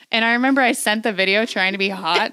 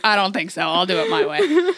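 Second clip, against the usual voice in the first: defiant; 2 semitones lower than usual. Retold or imitated. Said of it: "I'm like".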